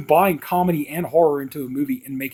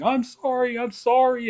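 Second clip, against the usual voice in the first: retold screaming; 10 semitones higher, slower than usual. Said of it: "he starts screaming".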